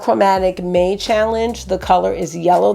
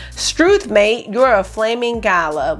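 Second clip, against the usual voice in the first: mock Aussie exclamation. Vlogger demoing the shade name as slang, playful mock Australian. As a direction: toss off the Aussie slang like a cheeky local. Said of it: "used as an exclamation".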